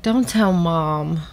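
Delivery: slow, mild warning; understated, slow-paced warning. Acted. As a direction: warn a sibling, drawing it out. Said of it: "warned Little Boy Blue".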